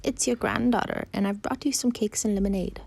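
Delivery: high, airy fake granddaughter; wolf posing as girl. Wolf pretends to be the granddaughter, high airy voice.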